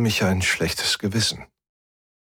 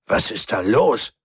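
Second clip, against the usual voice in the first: puzzled, with a jump in pitch; confused; 2 semitones higher than usual. A narrator's reading. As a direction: ask in growing bewilderment. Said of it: "mischte sich Verwirrung in seine Stimme".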